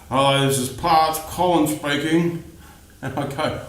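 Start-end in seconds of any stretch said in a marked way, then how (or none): 0.1-2.4 bored, flat-sounding hello; a hint of a bored parts guy; unenthusiastic phone greeting. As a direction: answer like you couldn't care less. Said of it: "how enthusiastic was Colin? Not very".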